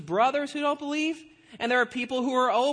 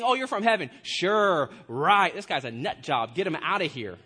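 mock disbelief, sinking lower; scoffing crowd, voice dropping as they dismiss him; sarcastic dismissal; 4 semitones lower than usual. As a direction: brush off a crackpot. Crowd dismisses Jesus as crazy.

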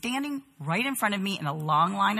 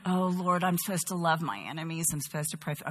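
soft, lowered, acted-out prayer; re-enacted reluctant prayer; 3 semitones lower, 7 dB quieter than usual. Preacher relives praying in the checkout line, reluctant and quiet. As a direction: pray under your breath, dropping away.

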